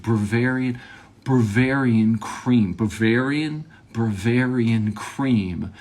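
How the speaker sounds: "Bavarian" with a stray R, like "Bravarian"; struggling to pronounce. Retold or imitated. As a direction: labour slowly over "Bavarian", tripping into "Bra-varian". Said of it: "I couldn't say the word".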